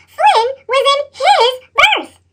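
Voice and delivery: high, slow gasp of dismay; outraged at the sight; shocked. A narrator's reading. Narrator reveals Flynn in Percy's berth, shocked.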